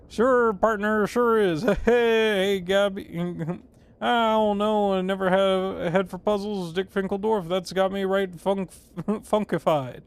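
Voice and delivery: hammed-up cowboy, breaking into laughs; Gabby. Player voicing a puzzled character in the game, hammed-up cowboy. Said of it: "Gabby doesn't talk like that".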